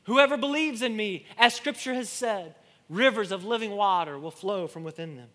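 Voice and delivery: high, loud proclamation easing down in pitch. Retold or imitated. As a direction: cry it out to a festival crowd. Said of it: "Jesus says in a loud voice".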